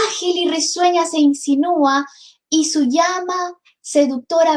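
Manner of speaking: measured, lilting reading of verse; poem recitation. Acted. Teacher reciting a poem to the class, lyrical. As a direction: savor each line like a recital.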